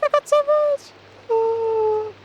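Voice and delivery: very high, slow laughing disbelief; shocked laughter. Real, not acted. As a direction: squeal it through laughter in shock. Shocked by huge loot.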